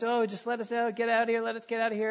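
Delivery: "let us out" rattled off fast as a mock whine; mock complaining. Preacher mimics grumbling Israelites in Egypt, fast mock whine. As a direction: whine quickly like a grumbling crowd. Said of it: "They're complaining in E".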